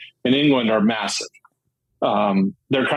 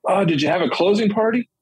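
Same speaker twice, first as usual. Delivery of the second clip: dad voice; 8 semitones higher than usual. Retold or imitated.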